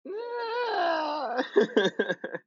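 long high-pitched cry breaking into laughter; held high squeal, then a chuckle; high drawn-out wail. Real, not acted. Co-host reacting to a conspiracy tale, high wail.

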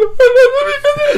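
high-pitched mock wail; imitated crying. Storyteller imitating his mother breaking into tears, high mock wail. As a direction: burst into exaggerated crying. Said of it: "She starts crying".

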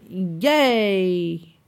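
imitating a half-hearted drawn-out cheer; faked enthusiasm. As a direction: cheer with barely enough effort to sound fake. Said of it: "she puts no effort into it".

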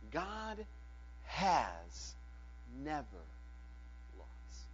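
hushed, solemn declaration; hushed pronouncement. Acted. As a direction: drop to a near hush, words spaced out. Solemn quiet pronouncement of heaven.

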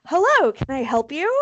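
a hint of helpful homeowner; door answerer. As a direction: answer the door with polite curiosity. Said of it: "I'm gonna be the person who answers the door".

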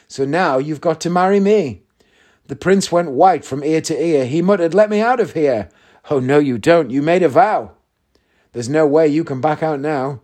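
lively rhythmic verse narration; poem reading. A narrator's reading. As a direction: read the comic poem with theatrical relish. Reads a comic poem aloud.

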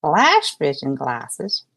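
slow, low, wondering question; amazed old lady. Pretend. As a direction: repeat the name in disbelief. Betty, amazed.

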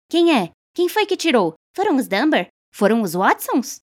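perguntas agitadas, bem agudas; a multidão ansiosa quer saber; falatório agitado. A narrator's reading. Mulheres perguntam ao mesmo tempo. (mulheres perguntam agitadas, muito mais agudo)

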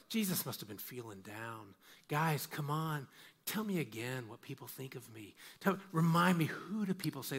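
softly voiced, mildly needy pleading; a light mock of someone fishing for reassurance; mock insecurity. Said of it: "because he has an inferiority complex".

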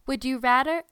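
accidental Asian accent. Real, not acted. Host asking her co-host a question, accidental Asian accent. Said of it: "my Falm accent came out".

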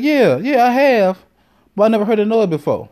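high, fast defensive reply; a girlfriend caught off guard, talking fast; date's voice. Retold or imitated. Date answering him in the woods, high and quick.

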